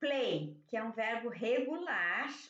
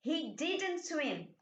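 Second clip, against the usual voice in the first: slow, careful negative; slow model sentence; 4 semitones higher, much slower than usual. Shown as a demonstration. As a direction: spell it out slowly. Teacher models negative slowly. (frase negativa lenta)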